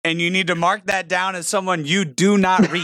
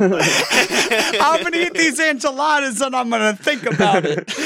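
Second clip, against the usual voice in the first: laughing mock defendant; 6 semitones higher than usual. Acting out the defendant.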